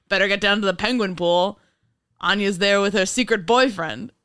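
1930s newsman, punchy and brisk; fast-talking newsreel reporter; old-timey reporter voice. Pretend. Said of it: "Your old-timey nineteen thirties reporter voice?".

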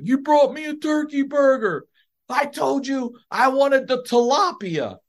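high-pitched whining patient imitation; mock outrage over the wrong dinner; hammed-up, high protest; indignant complaint. Acting out patient's complaint about dinner.

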